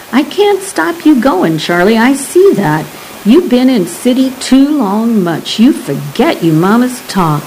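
lightly voiced Cajun old man, imploring; a touch of Cajun lilt, hurt and pleading. Old Pearl begs the guide not to forget his roots, lightly Cajun.

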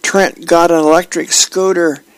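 put-on high-pitched little boy bursting with news; squeaky, thrilled child voice; excited kid. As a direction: gush breathlessly like a kid begging mom. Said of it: "rushing in to the room and yells".

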